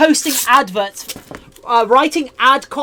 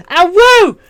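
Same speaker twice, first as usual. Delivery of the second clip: wolf howl; 7 semitones higher, 10 dB louder than usual. Pretend. Streamer howls then scolds chat.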